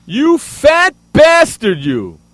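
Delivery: loud, drawn-out angry rant. Real, not acted. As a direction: rail at them in slow, punched words. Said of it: "because I'm getting louder".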